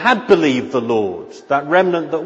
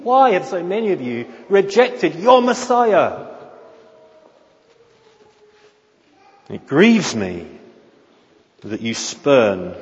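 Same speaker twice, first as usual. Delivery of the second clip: sorrowing prophet pleading with the people; overwhelming sorrow; 3 semitones higher than usual. Shown as a demonstration. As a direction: ask it with overwhelming grief. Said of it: "asked in a tone of overwhelming sorrow".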